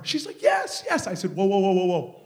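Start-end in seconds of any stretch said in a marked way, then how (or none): 0.4-1.1 high, excited imitation of her; mock-excited high voice; eager yes. Woman eagerly accepts the prophecy. 1.3-2.2 tag. Retold or imitated. Halting her eager agreement.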